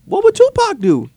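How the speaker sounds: mock-rallying motto; playful proclamation. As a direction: build to a high, loud finish. Playful catchphrase announced.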